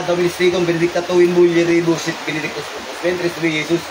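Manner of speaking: steady rapid liturgical recitation; Latin prayer recitation. Real, not acted. Healer praying over the possessed woman, steady recitation. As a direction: rattle off the Latin prayers evenly.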